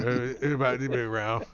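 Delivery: quick slurred mumble; Boomhauer mumble. Acted. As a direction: rattle it off unclearly. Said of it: "He talks like Boomhauer".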